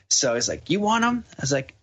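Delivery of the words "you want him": high, rising challenge; mock confrontational question, sharply higher; imitated challenge. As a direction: throw it out as a dare, pitched right up. Drunk man repeats his challenge.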